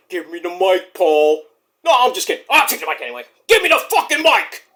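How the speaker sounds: mock Jey Uso. Mocking Jey grabbing mic.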